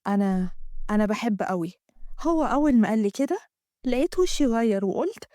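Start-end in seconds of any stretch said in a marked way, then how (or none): 0.1-1.7 Amgad. Acted. Amgad voiced in the story.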